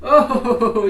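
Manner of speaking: very high, excited coo to the dog. Real, not acted. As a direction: call the puppy over sweetly.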